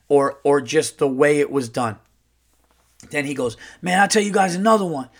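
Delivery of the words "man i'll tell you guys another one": lightly voiced brash uncle, higher; a hint of brash uncle; Earl. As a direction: imitate a brash guy launching into a yarn. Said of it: "like, a very brash uncle".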